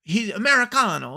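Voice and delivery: high, put-on Italian-style accent; hammed-up Italian foreigner; mock Italian accent. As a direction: mangle it into fake Italian. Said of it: "no, it's Italian".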